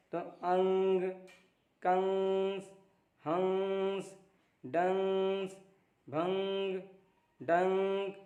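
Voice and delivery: each word with a short nasal hum held; nasal words demo. Shown as a demonstration. Teacher rereads anusvar examples, nasal stressed. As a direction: read अंग and कंस with the nasal through the nose. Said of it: "एक second तक आवाज़ को ठहराना है".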